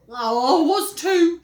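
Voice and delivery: loud protest; insistent. Acted. Henry insisting to Peter, loud. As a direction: insist hard.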